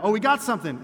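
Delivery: mock excitement. Fisherman's excited false hope.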